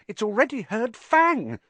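very high, panicked squeak; high-pitched, frightened retort; unnaturally high voice. A narrator's reading. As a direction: protest in a fear-pitched squeal. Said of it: "in an unnaturally high voice".

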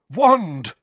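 high, urgent burst; frantic muttering. A narrator's reading. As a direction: blurt it while desperately searching. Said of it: "Harry muttered frantically".

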